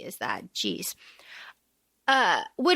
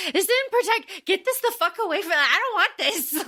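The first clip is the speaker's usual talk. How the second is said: higher, quick, fed-up rejection of the pin; Prim, annoyed; 6 semitones higher than usual. Retold or imitated. Prim rejecting the pin from her sister, high and fed up. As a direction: toss the pin back, high and irritated. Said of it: "Primrose is like".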